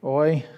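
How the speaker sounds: "oi" said slowly, as in foil; diphthong sound. Shown as a demonstration. Teacher modelling omicron iota for students, slow. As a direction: draw out "oi" like the vowel in oil. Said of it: "Omicron iota sounds like".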